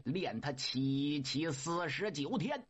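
low, drawn-out chanting command; old Laojun intoning the forty-nine days; slow incantation. Acted. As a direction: intone it like a spell, slowly. Laojun orders the fire.

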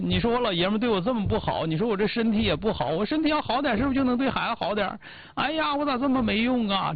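调门渐渐抬高，假装委屈地数落自己; 装可怜诉苦，最后高声哀叹; 示范哭诉. Shown as a demonstration. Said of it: "你就哭，". (教人哭着示弱，略带夸张的埋怨腔)

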